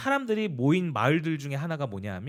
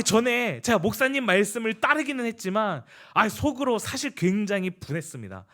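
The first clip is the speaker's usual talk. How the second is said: excited; 4 semitones higher than usual. Retold or imitated. Late-night excited report to pastor.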